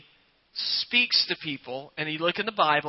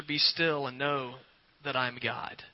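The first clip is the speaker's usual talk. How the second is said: hushed scripture; 4 semitones lower, 7 dB quieter than usual. Shown as a demonstration. Quoting Scripture about stillness.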